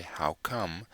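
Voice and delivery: "how come" with the weight on "come"; stress on COME. Shown as a demonstration. Teacher contrasting English emphasis, stress on "come" in "how come". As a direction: lean on the second word, "come", in "how come". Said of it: "your emphasis is on the come".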